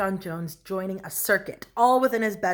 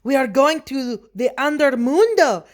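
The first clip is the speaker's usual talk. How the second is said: put-on raised, loud Spanish-accented reply; chihuahuas answering; 6 semitones higher, 8 dB louder than usual. A narrator's reading. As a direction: proclaim it as a gang of little dogs. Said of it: "answered the Chihuahuas".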